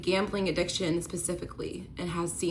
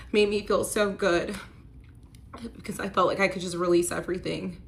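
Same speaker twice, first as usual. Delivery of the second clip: emotional; 3 semitones higher than usual. Real, not acted. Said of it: "Sorry, you guys, I get emotional at this part".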